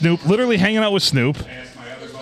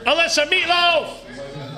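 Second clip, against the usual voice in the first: mock calling out; 12 semitones higher, much slower than usual. Calling the guest by nickname.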